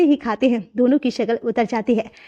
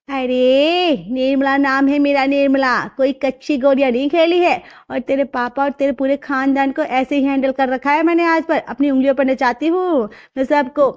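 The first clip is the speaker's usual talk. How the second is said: boastful mother; 3 semitones higher than usual. Acted. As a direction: savor every word of the boast. Nirmala boasts of her control.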